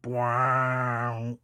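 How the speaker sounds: mock War of the Worlds blare; imitated alien noise. Imitating the War of the Worlds noise, mock blare. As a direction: copy the eerie machine sound. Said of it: "makes a sound kinda like".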